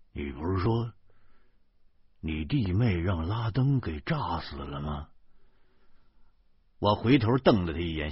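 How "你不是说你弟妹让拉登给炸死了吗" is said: low, softened murmur in someone's ear; hushed aside. A narrator's reading. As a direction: ask discreetly, for one ear only. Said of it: "在我的耳边小声地说". (凑在耳边小声问)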